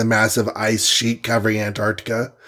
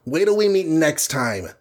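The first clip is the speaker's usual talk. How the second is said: higher, mild mock rage; raging; 6 semitones higher than usual. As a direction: threaten with rising fury. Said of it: "he raged".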